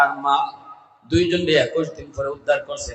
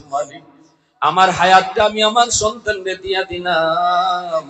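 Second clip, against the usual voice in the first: mother's tearful prayer; 4 semitones higher, 4 dB louder than usual. Retold or imitated. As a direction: lightly act a mother pleading with God. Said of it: "মায় কাঁদছে আর কইছে". (মায়ের কান্নাভরা দোয়ার মৃদু অনুকরণ)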